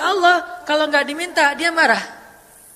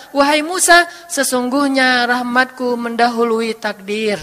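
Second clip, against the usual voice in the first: slow, weighty proclamation; loud call settling into slow pronouncement; God addressing Moses; 4 dB louder, slower than usual. Acted. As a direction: declare it solemnly, stretching the words. God's solemn answer to Moses.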